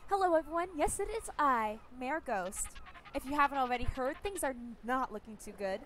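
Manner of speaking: lightly voiced mayor addressing a crowd; a hint of a put-on public speaker; Ghost. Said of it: "How do I do a ghost impression?".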